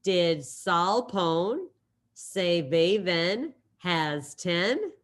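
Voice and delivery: slow, drawn-out punchline; milk the pun slowly; teacher landing the mnemonic punchline slowly; punchline delivery. Pretend. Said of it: "ready? Wait for it".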